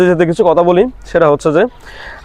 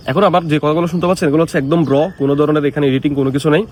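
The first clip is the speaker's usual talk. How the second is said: phone noise cancelling on; processed, slightly muffled phone mic; noise reduction artifacts; 4 dB quieter than usual. Shown as a demonstration. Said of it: "iPhone sixteen Pro Max এর noise cancellation mode on".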